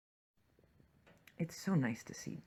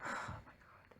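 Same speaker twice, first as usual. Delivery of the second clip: sigh, then a soft whisper; 12 dB quieter than usual. Real, not acted. Viewer sighs at the body on the slab, in a sad whisper. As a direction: let it out on a sad breath.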